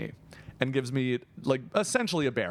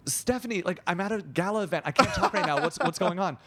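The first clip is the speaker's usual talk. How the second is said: lightly voiced harried friend, higher pitch; friend on FaceTime; 4 semitones higher than usual. Friend at a gala takes a FaceTime call, mildly harried. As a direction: imitate a friend too busy to talk. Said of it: "I hear her go".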